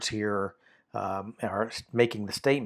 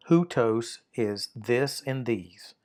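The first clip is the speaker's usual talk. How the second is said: slow gloss; slower than usual. Shown as a demonstration. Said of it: "near demonstrative".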